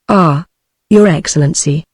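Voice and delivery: usual speaking voice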